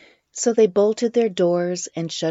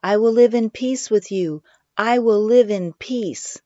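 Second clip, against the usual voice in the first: ringing out; 6 semitones higher, 5 dB louder than usual. A narrator's reading. Girl calling out over the police, high and ringing. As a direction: let it ring over the crowd. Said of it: "her voice rang out".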